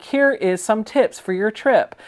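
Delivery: slow imitation of a Metro announcement; lightly hammed-up recorded announcer girl; slightly exaggerated announcer. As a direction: recite it like a station public service message, drawn out. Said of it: "In a slightly more ghetto-fied voice than".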